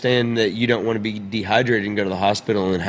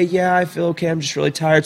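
daughter's voice; 6 semitones higher than usual. Retold or imitated. Father voices tired daughter.

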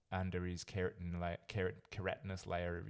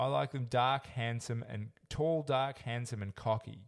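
lightly voiced woman contestant; 2 semitones higher, 3 dB louder, slower than usual. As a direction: list it dreamily. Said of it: "Can you do a voice?".

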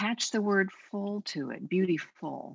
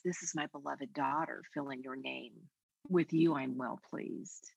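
tender blessing; 3 semitones lower, 5 dB quieter than usual. Acted. Blessing each listener as God's beloved daughter, tender and soft. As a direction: speak it gently like a loving father.

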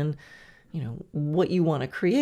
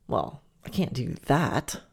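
lower, slow dismissive critic; inner critic; 4 semitones lower than usual. Retold or imitated. Brain's doubting voice answering the dreamer, dismissive. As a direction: shut the idea down, lower and slow. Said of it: "hear your brain go".

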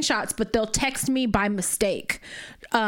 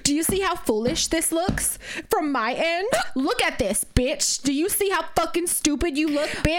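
mock indignant; 5 semitones higher than usual. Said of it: "tried to play it off like".

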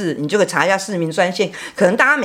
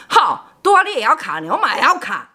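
学醉父生气; 5 semitones higher than usual. Retold or imitated. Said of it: "就很生气".

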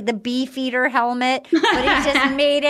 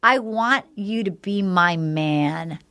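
slow, lower, mock-sultry line; retold seduction; 4 semitones lower, slower than usual. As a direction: say it slowly and low, imitating a seductress. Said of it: "it was so hot".

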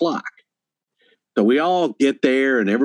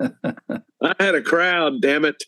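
drawn-out, indignant mock protest; 3 semitones higher, much slower than usual. Busker protesting about his lost audience, mock indignant. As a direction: play a wounded performer protesting, dragging out the words. Acting out the sad busker's outburst.

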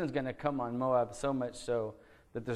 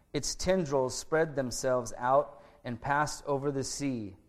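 scripture reading; 3 dB louder than usual. Acted. Pastor reads Isaiah's prophecy to the congregation, solemn and measured. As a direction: read the verses out with weight to the congregation.

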